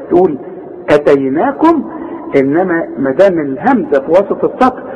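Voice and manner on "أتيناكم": أتيناكم with a short first a; no madd. Shown as a demonstration. Teacher showing hamza without madd, short first vowel in أتيناكم. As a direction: open أتيناكم on a brief, unstretched vowel. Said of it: "إذا كانت فوق السطر يبقى ما عندكش مد".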